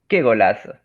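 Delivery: loud goal cheer; excited cheer. Shown as a demonstration. Reading exclamation example.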